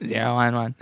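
robot voice reading binary; robot voice, zero one one. Pretend. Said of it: "the most robotic voice".

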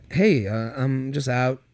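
a hint of an old-school man; old-fashioned guy voice. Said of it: "He does have a very old-fashioned voice".

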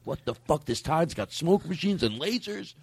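high, strained mock panic, slowing into a wail; mock-panicked yell, drawn out at the end; panicked rivals. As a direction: act out rival podcasters freaking out, voice climbing high. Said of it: "They're like".

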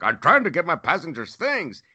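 high-pitched imitation of an indignant worker; mimicked protest. Wheelchair pusher squaring off to traveler, protesting. Retold retort of airport worker.

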